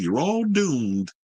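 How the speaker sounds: very slow, ominous doom warning; Ralph impression. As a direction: drag it out like a creepy prophet of doom. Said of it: "I'm trying to do Ralph from, uh, remember from Friday the Thirteenth".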